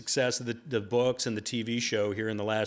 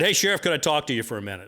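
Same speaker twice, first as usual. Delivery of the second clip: calling out; 4 semitones higher, 5 dB louder, faster than usual. Retold or imitated. Calling down the hallway.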